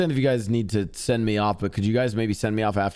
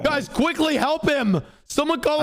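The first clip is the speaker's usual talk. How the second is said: calling from far away. Acted. Calls for help after injury.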